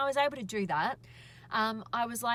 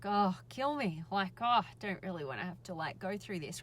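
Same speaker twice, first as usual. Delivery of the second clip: weary retold grumble, trailing off softer; mild irritation; 3 semitones lower, 3 dB quieter than usual. Granddaughter inwardly dreading granny's fuss, mildly irritated. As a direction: grumble it privately, fed up and low. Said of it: "I felt a bit irritated by it".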